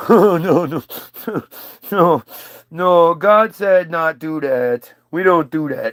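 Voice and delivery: half-laughing simpleton no; dim Eve refusing. Retold or imitated. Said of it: "Eve refuses snake".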